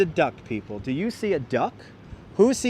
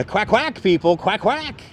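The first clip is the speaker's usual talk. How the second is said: light mock duck call; duck quack; 3 semitones higher, slower than usual. Imitating a duck again.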